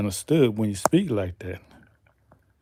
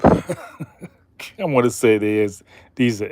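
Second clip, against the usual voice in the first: laughing. Real, not acted. Laughs mid sentence.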